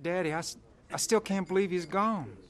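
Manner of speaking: soft, broken grief; barely holding it together; grieving. Acted. Grieving friend killed in crash.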